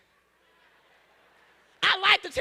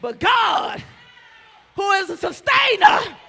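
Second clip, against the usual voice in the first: rising preacher's cadence, building to a shout; preaching at full force. Acted. Preacher building up the congregation, full-force preaching. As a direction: preach it, climbing with the crowd.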